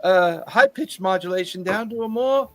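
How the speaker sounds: fussy, excitable shopkeeper; eager tinkerer voice. Acted. Tinkerer NPC welcomes guests.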